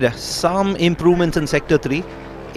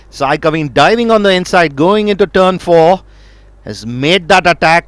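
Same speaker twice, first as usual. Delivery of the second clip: excited; 3 dB louder than usual. Real, not acted. Calling an overtake live.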